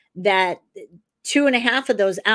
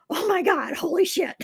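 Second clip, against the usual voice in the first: much higher, laughing through the words; amazed laughing exclamation; 10 semitones higher than usual. Retold or imitated. Retelling her usual reaction to uncanny case coincidences, giddy laughing disbelief. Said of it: "but I always go".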